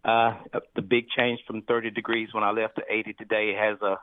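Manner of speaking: congested, nasally voice. Real, not acted. Caller with sinus trouble describing the weather, nasally. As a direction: talk through troubled sinuses. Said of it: "you sound nasally".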